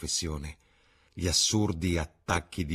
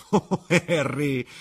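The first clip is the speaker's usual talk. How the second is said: higher, louder, slow exclamation with a laugh; quiet laugh; 10 semitones higher, 8 dB louder, much slower than usual. Acted. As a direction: laugh it off, amused. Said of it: "esclamò il ragazzo con una quieta risata". (esclamazione divertita con una risatina)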